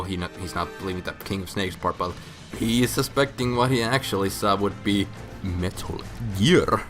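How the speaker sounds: ordinary delivery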